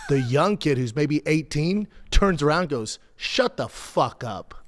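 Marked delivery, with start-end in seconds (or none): 3.2-4.5 slow, deliberate put-down, each word spaced; drawn-out dismissal, not shouted; retold slow retort. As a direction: imitate a kid's unhurried comeback. Young ump's retort, retold.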